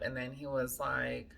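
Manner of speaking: usual speaking voice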